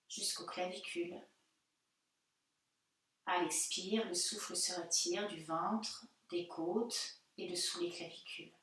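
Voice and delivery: calm yoga-teacher guidance with long pauses; unhurried meditation voice, phrase by phrase; guided meditation. Real, not acted. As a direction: guide them gently into body and breath, leaving silences. Leads a guided breathing meditation.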